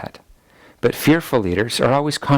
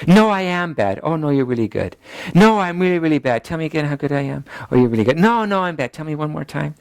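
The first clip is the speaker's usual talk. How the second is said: mock fishing for praise; 4 semitones higher than usual. Acts fishing for reassurance.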